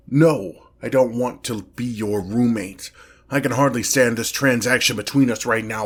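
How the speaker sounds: exasperated demon protest; loud opening no, then push on irritably; indignant refusal. Acted. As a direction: refuse the mortal outright.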